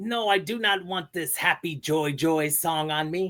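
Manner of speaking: high cartoon voice. Doing a rapid-fire cartoon impression: Ren voice. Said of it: "I got Ren from Ren and Stimpy".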